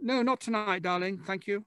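put-on prim British accent. Politely turning down a rude joke in a prim British accent. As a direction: turn down the cheeky offer in a prim British accent. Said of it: "That was a great accent".

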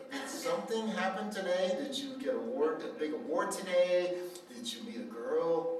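mother quizzing her cheerful son, eager; eager questioning. Retold or imitated. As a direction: pepper him with hopeful questions.

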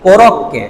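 কোরককে drawn out slowly, syllable by syllable; slow Japanese reading. Shown as a demonstration. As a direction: spell out কোরককে slowly like a teacher. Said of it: "কুরককে".

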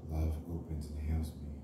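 unhurried, even affirmations; guided meditation. Acted. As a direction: lead them gently through affirmations, leaving long pauses. Leads guided heart chakra meditation.

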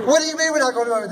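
high, laughing what, rushed and fast; laughing disbelief. Retold or imitated. Telling friends who refused Montgomery, laughing disbelief. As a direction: scoff at the idea with a laugh. Incredulous retort in retold argument.

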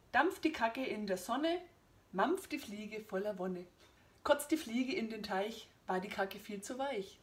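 slow, measured rhyme reading; deliberate poetry-reading cadence; poem recitation. Acted. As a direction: recite it line by line with mock ceremony. Reads comic poems from book.

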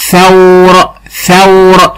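ثور said carefully with tongue out; audible th for dictation. Shown as a demonstration. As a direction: make the th at the start of ثور clearly heard. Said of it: "لازم أخرج فيها لسان عشان التلميذ يسمع".

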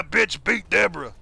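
Stone Cold impression. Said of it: "I can't do a Stone Cold".

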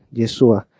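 Yeshua as "ye-SU-a". Retold or imitated. Teacher imitating a believer's own way, S for SH. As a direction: say Yeshua with S replacing SH. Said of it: "pero él dice Yeshua".

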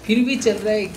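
can't believe the bike still moves; amazed outburst. Real, not acted. Gamer amazed the cycle still rolls in snow, loud high outburst.

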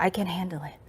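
quiet whispered "I can handle it", falling at the end; whispered self-talk. Shown as a demonstration. Telling yourself you can cope, whispered. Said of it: "핸들 할 수 있다".

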